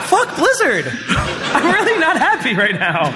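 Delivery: mock outrage. Mock rage about Blizzard.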